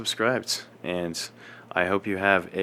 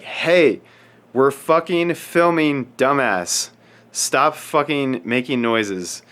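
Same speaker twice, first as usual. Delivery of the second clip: higher, louder mock-furious scold; angry scolding; 4 semitones higher, 4 dB louder, slower than usual. Director ripping off the lifter's headphones, loud scold. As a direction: tear into the dumb lifter.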